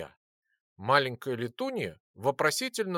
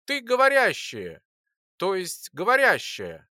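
excited; 4 semitones higher than usual. Acted. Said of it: "обрадовался я".

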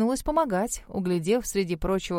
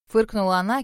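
usual speaking voice

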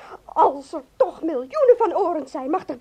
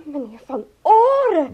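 tearful; 3 dB louder, slower than usual. Acted. Distressed secretary breaks down.

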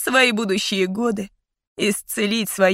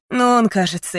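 usual speaking voice

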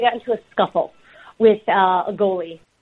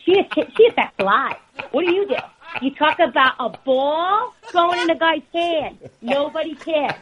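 mom's voice; 5 semitones higher than usual. Retold or imitated. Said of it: "She goes".

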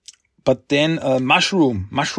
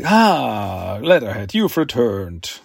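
lower, slow villain greeting, lightly voiced; sinister mastermind; 4 semitones lower, slower than usual. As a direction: purr the welcome like a hidden schemer. Puppet master welcomes Leatherhead.

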